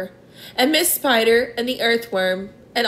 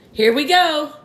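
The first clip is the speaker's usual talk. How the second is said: higher-pitched excited cry; excited call; 6 semitones higher, 4 dB louder than usual. A narrator's reading. Creature as the room lurches, excited call. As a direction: call it out as things start moving.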